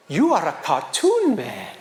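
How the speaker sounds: slow, deliberate soldier's pronouncement; imitated soldier. Soldier looking at his caricature, slow pronouncement. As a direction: play a soldier slowly bestowing a title. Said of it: "give it to him and he goes".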